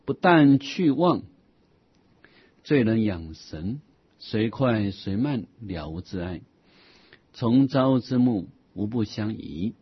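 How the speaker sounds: slow, measured reading of scripture; measured recitation of an old Buddhist text; formal text recitation. Acted. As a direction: read the classical passage slowly and deliberately. Reads a classical Buddhist text aloud.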